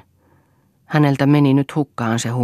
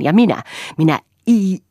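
raised, loud, words forced through a grimace; louder furious grimacing threat; 4 semitones higher, 6 dB louder than usual. A narrator's reading. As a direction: spit it out in rage, mouth twisted. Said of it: "raivoissaan irvisti".

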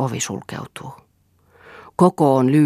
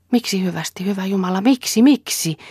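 anguished plea; 6 semitones higher than usual. Acted. Mirtia desperately begging Rolf at his farewell, anguished rising plea. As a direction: pitch climbing high on each miksi.

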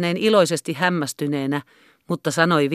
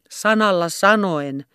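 gruff shout; 3 semitones higher, slower than usual. Acted. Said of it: "huusi hän yhä samalla äänellä".

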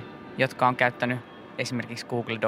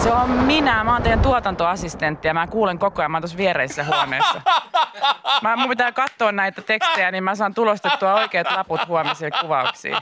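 sheepish reveal; 6 semitones higher, 4 dB louder than usual. Retold or imitated. Assistant answers from next room.

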